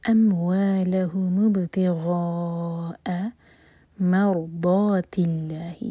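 voiced, very slow tajweed recitation; slow Quran recitation. Shown as a demonstration. Teacher recites the verse to show the rules, slowly. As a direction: draw each syllable out carefully. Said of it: "اس کے بعد ضاد heavy".

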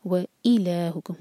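व and ई kept clearly apart in व इलाहुकुम; separate wa and i. Shown as a demonstration. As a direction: sound व, then ई, distinctly. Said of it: "clear अलग अलग".

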